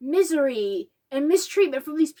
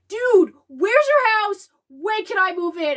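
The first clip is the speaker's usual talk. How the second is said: eager Harry; 5 semitones higher, 4 dB louder than usual. Retold or imitated. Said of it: "Harry's like".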